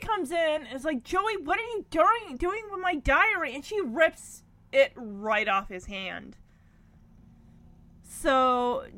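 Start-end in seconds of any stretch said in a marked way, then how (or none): 1.0-3.5 higher-pitched mock outrage; lightly acted indignant sister catching a snooper; retold indignant demand.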